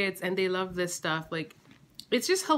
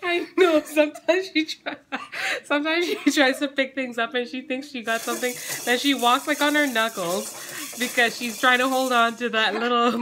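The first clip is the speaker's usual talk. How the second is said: higher, laughing through the words; laughing while describing; 4 semitones higher, 7 dB louder than usual. Real, not acted. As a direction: let the giggles spill through. Laughing about baby.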